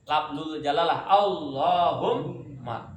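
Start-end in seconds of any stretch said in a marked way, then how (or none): 1.1-2.9 Allahumma with a long held double m; slow, lean on the mim in Allahumma; doubled mim. Shown as a demonstration. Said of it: "Dengan huruf mim".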